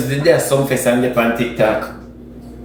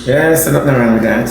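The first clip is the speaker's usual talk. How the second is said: shout; 5 semitones lower than usual. Acted. Urging the girl on loudly.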